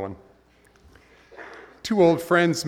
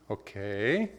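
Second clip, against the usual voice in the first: patient God; 2 semitones lower, 5 dB quieter than usual. Retold or imitated.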